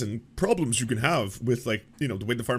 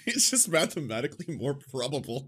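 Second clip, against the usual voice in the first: sarcastic; 2 semitones higher than usual. Retold or imitated. Sarcastic repeat of host's claim.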